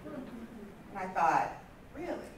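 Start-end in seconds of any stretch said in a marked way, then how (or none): 1.9-2.3 laughing disbelief. Retold or imitated. Reacting to mother's criticism.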